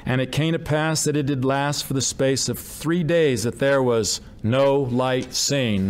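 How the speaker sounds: slowing hard on no light seen; emphasized. Shown as a demonstration. Preacher closing the fourth mention, emphatic. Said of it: "That's four times".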